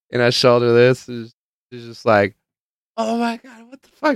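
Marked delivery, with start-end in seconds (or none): 3.0-4.2 imitated giggly disbelief. She sees the note, imitated high giggly disbelief. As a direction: squeak it out as if starting to giggle. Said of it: "She starts giggling".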